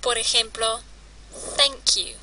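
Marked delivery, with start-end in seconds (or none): 1.6-2.1 "thank you" with a clear unvoiced TH; tongue between the teeth to start "thank"; English TH sound. Shown as a demonstration. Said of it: "T H se pronuncia como zapato".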